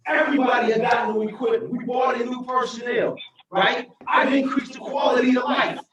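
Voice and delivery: mayor defending her record to council, emotional shout; impassioned. Real, not acted. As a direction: fight for the employees with rising passion. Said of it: "I get a little emotional".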